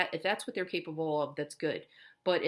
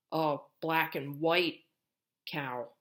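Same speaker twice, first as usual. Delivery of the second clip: drawn out, each word spaced; slow modeled phrase; slower than usual. Shown as a demonstration. Therapist modeling a phrase to a child, slowly. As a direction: say it slowly for copying.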